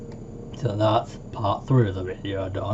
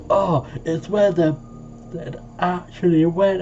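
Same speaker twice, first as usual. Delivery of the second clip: quoting friend; 7 semitones higher than usual. Retold or imitated. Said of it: "And he was, like, saying".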